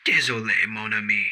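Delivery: mock sorrow in French; fake sad. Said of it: "He feigned sounding sad".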